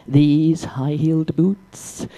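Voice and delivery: slow, whispered repeat of the boots; whispered aside. Acted. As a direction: breathe it out slowly as a rueful aside. Aside about her boots.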